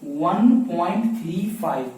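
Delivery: "वन पॉइंट थ्री फ़ाइव" said slowly, digits after the point single; slow, careful model reading of वन पॉइंट थ्री फ़ाइव; correct reading demo. Shown as a demonstration. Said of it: "इसे पढ़ेंगे".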